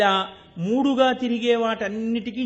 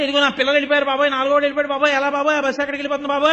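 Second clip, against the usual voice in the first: fast, louder mock wail of a panicked mother; imitating a frantic wail; 4 dB louder, much faster than usual. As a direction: rattle it off like a mother crying for her lost kids. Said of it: "అని అరవడం ఎలాగో".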